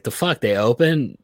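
high, startled retold "the fuck"; mock surprise. Retelling his own shock that valet reopened, mock surprised. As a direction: act out his baffled surprise.

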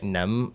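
Nam said low with the pitch going down; falling tone. Shown as a demonstration. Teaching a Vietnamese word, Nam low and falling. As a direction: drop the voice on Nam. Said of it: "like, go down".

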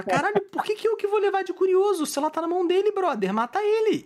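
high-pitched frantic whine; panicked inner protest. Retold or imitated. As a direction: protest as if your life depends on it. Acting out panicked thoughts at gunpoint.

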